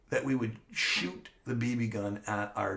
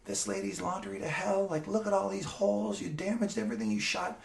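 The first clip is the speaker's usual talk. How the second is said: higher-pitched mock scolding of the kids; scolding grandfather; 11 semitones higher than usual. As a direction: play the fuming grandfather listing the damage. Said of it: "and he says".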